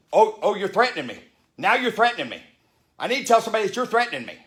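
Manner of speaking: whiny passenger. Retold or imitated. Rude passenger accusing the speaker, mock tattletale whine. Mocking passenger claiming a threat.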